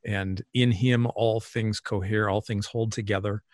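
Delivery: slow, measured quoting of scripture; scripture recitation. Acted. Guest quoting Paul to the host, slow recitation. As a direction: recite the verse slowly, phrase by phrase.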